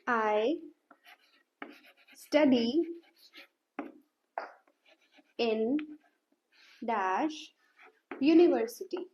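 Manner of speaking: "I study in dash university" spoken word by word with long pauses; slow dictation. Shown as a demonstration. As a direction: dictate slowly as you write. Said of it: "मान लो मैं लिख रही हूँ यहाँ पे". (लिखते हुए धीरे-धीरे शब्द-शब्द बोलना)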